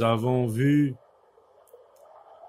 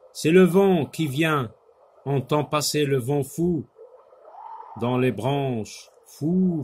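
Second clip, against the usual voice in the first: poem recitation. Acted. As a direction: recite it dramatically, lifting each "fou" and lowering the verses between.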